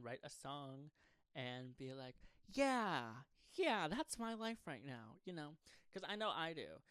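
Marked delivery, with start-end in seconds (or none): 2.5-5.2 gushing fan voice. Retold or imitated. Imitating a relating listener.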